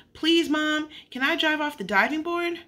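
put-on high-pitched child's plea to Mom; pleading child. A narrator's reading. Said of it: "Sheila shouted".

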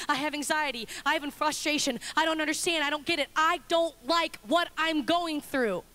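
mildly pained confession, slowing to the end; King David pouring out his honesty; David's honest complaint. Acted. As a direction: let the frustration drag out. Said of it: "he pours out his honesty".

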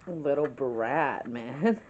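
a slow chuckle through the words; said through real laughter; laughing. Real, not acted. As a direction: laugh it off affectionately. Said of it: "She just started laughing".

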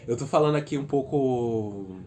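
shivering from cold, voice trembling. Real, not acted. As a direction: talk while shivering from cold. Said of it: "porque eu tô morrendo de frio".

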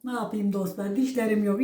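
speaking without teeth; gummy toothless speech. Real, not acted. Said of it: "Dişleri gedik kaynana".

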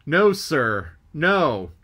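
loud call through cupped hands; shouted report. Acted. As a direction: trumpet it across the deck.

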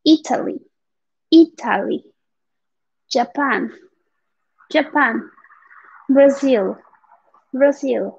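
Italy, Japan, Brazil, each word said apart with falling tune; pronunciation model. Shown as a demonstration. Teacher reviewing countries for Spanish-speaking students, pronunciation model. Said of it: "vamos a ver estos rápido para que se acuerden de la pronunciación".

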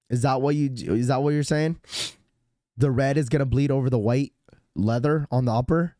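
rough, sick throat voice; hoarse voice. Real, not acted. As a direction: talk through a sore throat. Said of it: "hearing your voice makes me wanna clear my throat".

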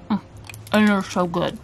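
talking with a mouthful of chocolate; chewing while talking. Real, not acted. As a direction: chew and speak at once. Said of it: "Excuse the chewing".

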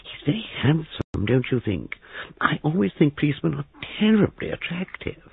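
very high, gushing voice; shrill. A narrator's reading. Young man admiring the handsome policeman, shrill. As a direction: gush in a piping high register. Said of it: "Christopher Wren said shrilly".

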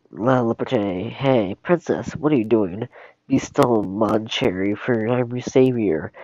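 slow, showy French hero voice; French accent. Acted. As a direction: play the dashing Frenchman. Robin Hood's French flair.

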